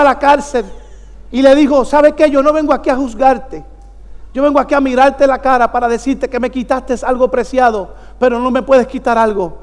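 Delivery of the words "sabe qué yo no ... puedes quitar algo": subdued, sincere acted quote; solemn forgiveness. Father telling his daughter's attacker he forgives, solemn. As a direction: retell it softly and gravely.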